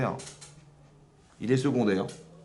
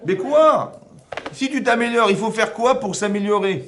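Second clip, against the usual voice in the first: pressing question; 9 semitones higher, 6 dB louder, slower than usual. Real, not acted. Teacher presses the question loudly.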